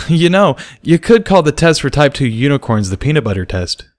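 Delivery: lightly voiced Barry; musing. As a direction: think it through aloud. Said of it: "thinking out loud".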